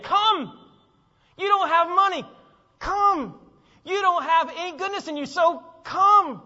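high, loud, pleading call to come; shouted invitation. Acted. Preacher shouting Jesus' invitation to grumbling crowds, loud and high. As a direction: call out to the crowd, arms wide.

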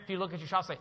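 ordinary delivery

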